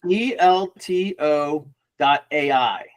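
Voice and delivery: slow, letter-by-letter dictation; spelling out. Real, not acted. Guest spelling the web address on request, slow spelling out. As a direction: spell it out slowly, each letter separate. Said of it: "Spell it, spell out the U".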